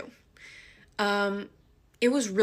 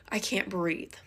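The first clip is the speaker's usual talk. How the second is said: gasping; 3 dB quieter than usual. Retold or imitated. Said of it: "my breath literally is taken away".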